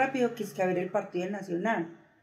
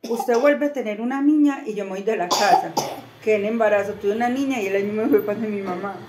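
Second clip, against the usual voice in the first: retold threat; 5 dB louder than usual. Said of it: "Porque Daniel dijo".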